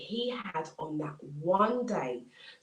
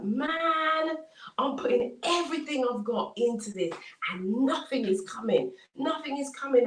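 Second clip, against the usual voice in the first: mildly exasperated, higher-pitched lament; acted exasperation, pitch lifted on "Man"; frustrated; 5 semitones higher than usual. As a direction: cry out in mild frustration as the struggling farmer. Farmer's frustrated outcry in story.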